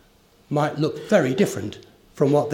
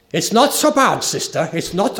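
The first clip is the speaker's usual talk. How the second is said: imitating a German mission leader, raised and louder; a lightly attempted German accent, clearly a quote; 3 semitones higher, 4 dB louder than usual. German mission leader reassuring young lady, German accent. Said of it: "I can't do the accent".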